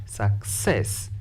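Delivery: success, with the second syllable drawn out and stressed; "success" said sucCESS, slow second beat. Shown as a demonstration. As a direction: lean slowly on the end of "success". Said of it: "stress the second syllable".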